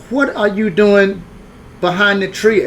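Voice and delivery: questioning hostess. Retold or imitated. Hostess asking boy behind her tree, questioning. And she said.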